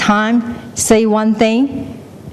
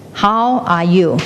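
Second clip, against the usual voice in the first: echo shouting back; slower than usual. Acted. The world shouts back from the cliff, slow echo. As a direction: echo it back slowly, without straining. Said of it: "It will shout back".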